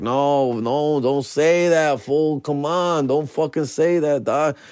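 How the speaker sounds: drawn-out, imploring disbelief; retold plea, stretching out the words; pleading protest. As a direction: beg them to stop, slow and dismayed. Begging jailer not to say it.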